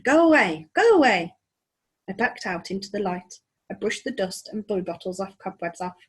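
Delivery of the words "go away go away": loud, high go away twice; grumpy creature voice. Acted. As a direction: drive him off grumpily. Skellig dismisses him.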